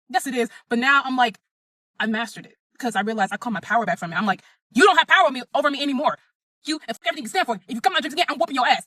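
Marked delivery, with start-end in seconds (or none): 4.7-8.8 defiant threat. Retold or imitated. Threatening the spirit in a dream.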